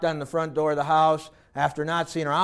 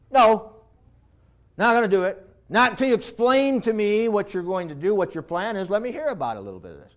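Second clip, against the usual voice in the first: firm father refusing; 2 semitones higher, faster than usual. Acted. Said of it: "didn't the father just look at him and said".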